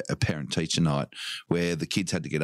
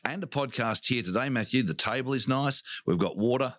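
high, fast footy commentator; sports commentator; 5 semitones higher than usual. Acted. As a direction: call it like a footy broadcast. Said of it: "I said that like a commentator".

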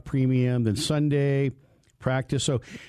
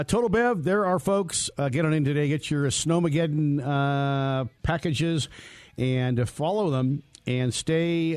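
sponsor ad read; 3 semitones higher than usual. Acted. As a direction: sell the car show like a radio ad. Reads a sponsor ad.

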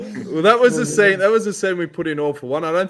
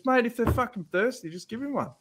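teammate scolding; 6 semitones higher, 6 dB quieter than usual. Retold or imitated. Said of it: "He goes".

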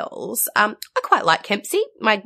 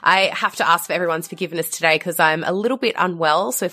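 slightly husky from a cold; husky, a bit rough from a cold. Real, not acted. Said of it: "if I sound a little bit husky".

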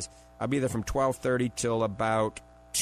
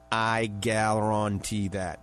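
slow, drawn-out New Orleans accent, a bit lower; 3 semitones lower, much slower than usual. Shown as a demonstration. Radio host showing off his New Orleans accent to listeners. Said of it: "That's my New Orleans accent".

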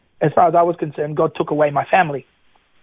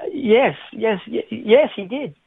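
stunned yes; 6 semitones higher, much slower than usual. Retold or imitated. Stunned reply to the bus driver.

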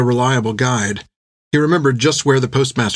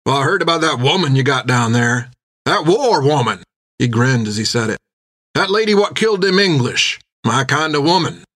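lightly voiced tavern drinker, admiring; red-faced drinker; 2 semitones higher than usual. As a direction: relish the tale of that war woman.

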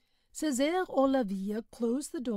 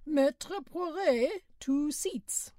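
driver calling out; 5 semitones higher, much slower than usual. A narrator's reading. Driver calling passenger names.

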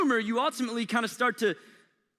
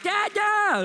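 put-on high child's call for dad, much higher and louder; mock little girl shouting Dad; imitating daughter calling out; imitating toddler calling; 13 semitones higher, 5 dB louder than usual. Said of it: "She's probably right now like".

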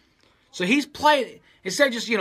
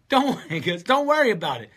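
breezy reassurance; 3 semitones higher, 3 dB louder than usual. Retold or imitated. Owner brushes off the torn ceiling.

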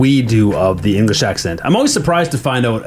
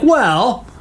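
high, playful put-on British accent; pitched-up joke British accent; mock British accent; 12 semitones higher, slower than usual. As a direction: ham up a British accent, on the edge of laughing. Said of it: "they break out a British accent".

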